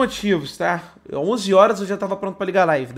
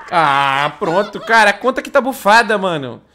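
louder laughing complaint; loud excited; 6 dB louder than usual. Real, not acted. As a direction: complain loudly, half laughing. Laughing about banned account.

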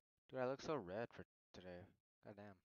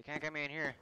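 loud panic; 5 semitones higher, 10 dB louder than usual. Real, not acted. Panicked in game.

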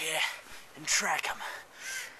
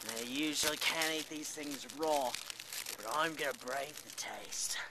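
soft whisper, much lower; 6 semitones lower, 11 dB quieter than usual. Pretend. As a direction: whisper the taste test. Whispered tasting.

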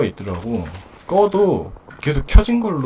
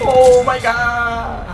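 slow drawn out; 6 semitones higher, much slower than usual. Real, not acted. Reaction to losing.

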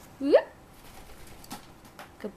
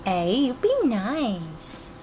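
gentle warning. Real, not acted. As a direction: warn the bird kindly but firmly. Scolding nippy bird gently.

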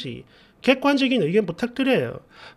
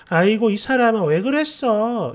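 gentle scolding tone. Retold or imitated. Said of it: "이런 톤으로 말을 했거든요".

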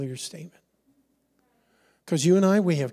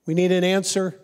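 pushy, louder come on; mock impatient prayer, louder; impatient nudging; 4 dB louder than usual. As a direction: nag God to hurry up. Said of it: "that constant nudging".

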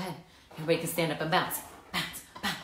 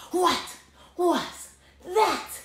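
surprised; 12 semitones higher, slower than usual. A narrator's reading. Kitten startled by mirror.

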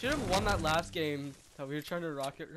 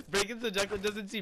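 laughing; 4 semitones higher, faster than usual. Real, not acted. Laughing while talking.

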